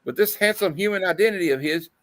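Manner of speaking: high, breathy swooning lady; swooning woman. Acted. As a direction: swoon over him. Reading swooning woman's lines.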